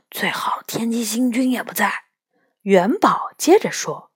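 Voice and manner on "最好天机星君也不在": soft unvoiced whisper. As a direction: whisper it under your breath. Sneaking into a dark tunnel.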